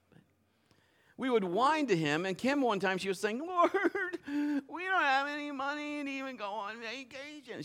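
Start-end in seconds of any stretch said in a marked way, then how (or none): 3.4-7.6 high, soft whining plea; whiny wife impression. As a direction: whine like a complaining wife. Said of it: "She doesn't really sound like that, but that's just for emphasis".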